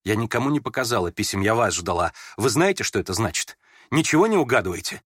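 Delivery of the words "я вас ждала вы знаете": ordinary delivery, nothing marked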